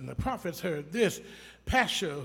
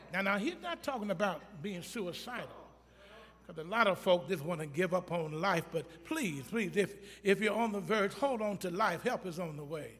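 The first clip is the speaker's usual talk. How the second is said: much softer, pleading aside; gentle pastoral plea; 4 dB quieter than usual. Real, not acted. Pastor softly pleading with anyone on the verge, tender. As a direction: hold them close with quiet care.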